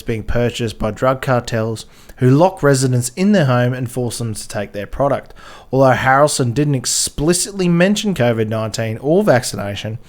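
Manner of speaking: lively news story read-out; emphatic, slightly formal reading voice; article read-aloud. Acted.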